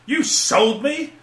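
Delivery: high, slow, loud mock growl from the heroine; hammed-up angry reading of the heroine; indignant heroine, hammed-up and drawn out; growled line. A narrator's reading. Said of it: "Kara growled".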